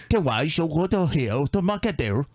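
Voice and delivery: imitated Chinese-sounding gibberish; clumsy Chinese impression; mock Chinese speech. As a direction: fake the sound of Chinese, badly. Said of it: "a Chinese guy sounding like".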